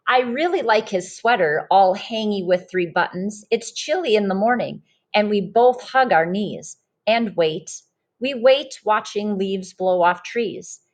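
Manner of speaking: lively storybook read-aloud voice; reading to children. Acted. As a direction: read it like a picture book to a class. Teacher reads picture book aloud.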